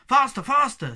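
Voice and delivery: high, loud and pressing; urgent urging. A narrator's reading. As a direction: urge someone on excitedly. Urging the pole to be shaken.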